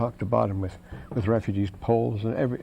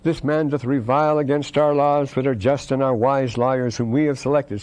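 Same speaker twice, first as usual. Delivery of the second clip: a touch of self-righteous indignation, somewhat louder; indignant retort; 3 semitones higher, 4 dB louder than usual. Retold or imitated. Accused townspeople protest to the prophet, in mock indignation. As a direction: voice the accusers as offended and defensive. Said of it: "then you become indignant".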